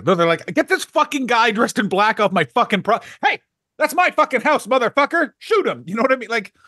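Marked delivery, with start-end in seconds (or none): 0.5-5.8 high, heated yelling at an intruder; hammed-up outraged local shouting; mock angry local. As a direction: bark it out like a furious homeowner.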